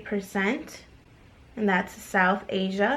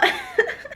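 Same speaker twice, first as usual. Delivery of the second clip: bright burst of laughter; high laugh. Real, not acted. Laughing at her own Scandinavian claim.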